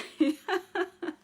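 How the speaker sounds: breathy high giggle. Real, not acted. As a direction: let out a giggle. Laugh before showing book.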